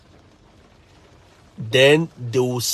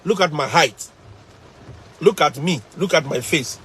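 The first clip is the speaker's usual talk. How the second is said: incredulous challenge; 3 semitones higher than usual. Retold or imitated. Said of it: "I'm like".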